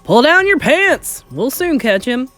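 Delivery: slow, high, loud holler; drawn-out loud call; shouting. A narrator's reading. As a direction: bellow an order to a flailing mate. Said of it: "someone else shouted".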